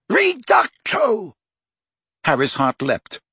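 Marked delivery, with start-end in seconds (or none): 0.1-1.3 "Reducto" high, slow, loud; shouted spell. A narrator's reading. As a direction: cry out "Reducto" stretched. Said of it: "a voice shouted".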